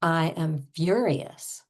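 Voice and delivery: slow, deliberate mock fury; understated acted anger; pretend fury. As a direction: stretch it out, acting incensed. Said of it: "we're gonna go over the top".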